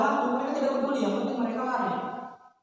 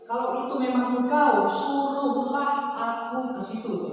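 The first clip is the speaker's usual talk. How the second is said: Peter pleading; 6 semitones higher, 7 dB louder, slower than usual. Acted. Peter asks Jesus.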